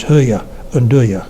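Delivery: "hear ya" and "do ya" with pushed-out lips; "hear ya" and "do ya", rounded, mouth barely open. Shown as a demonstration. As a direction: push the lips forward on "hear ya" and "do ya". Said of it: "we push our lips out when we speak".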